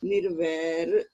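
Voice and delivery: slow ਨਿਰਵੈਰ with a short break after ਨਿਰ; ਨਿਰ - ਵੈਰ, drawn out with a small pause. Shown as a demonstration. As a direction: say ਨਿਰਵੈਰ slowly, pausing briefly on the ਔਂਕੜ. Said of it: "ਥੋੜਾ ਜਿਹਾ pause ਦਈਏ".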